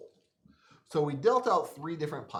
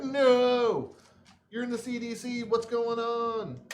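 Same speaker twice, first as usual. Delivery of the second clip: mock panic; 9 semitones higher, 4 dB louder, slower than usual. Voicing panicked players.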